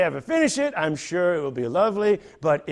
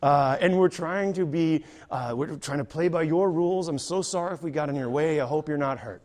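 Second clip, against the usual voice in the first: polite ambassador; 2 semitones lower, 3 dB quieter than usual. Retold or imitated. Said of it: "the ambassador in me was like".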